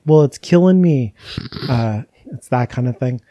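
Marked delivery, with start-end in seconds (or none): 0.0-1.1 louder punchline retort; mock comeback. Retelling a childhood joke to her co-host, louder punchline. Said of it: "And I'd be like".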